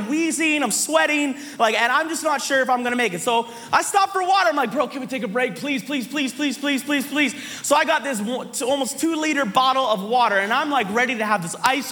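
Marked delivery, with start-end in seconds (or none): 4.7-7.3 rapid-fire begging; pleading. Retold or imitated. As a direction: beg for a break, the pleases tumbling out. Begging brother-in-law for a break.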